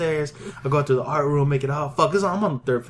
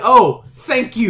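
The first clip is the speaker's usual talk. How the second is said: mock thanks; 4 semitones higher, 5 dB louder, much slower than usual. Acted reply to officers' apology.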